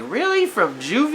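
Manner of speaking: high-pitched, incredulous "Really?"; retold surprised question, starting very high; disbelieving. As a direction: imitate someone taken aback, voice leaping up.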